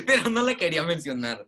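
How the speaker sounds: amused, laughter creeping into the words; laughing. Real, not acted. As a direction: say it through a chuckle. Se ríe de su propia broma. (entre risas)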